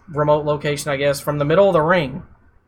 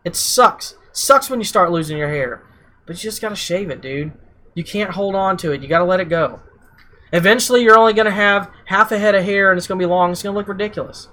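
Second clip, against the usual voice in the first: wrestling promo; 3 semitones higher than usual. Retold or imitated. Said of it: "I like how you use that generic wrestler voice, the Roman Reigns".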